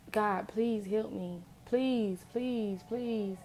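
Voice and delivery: slow, begging prayer; mild imitated crying plea; desperate pleading. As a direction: plead with God, worn out. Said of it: "I'm talking about crying".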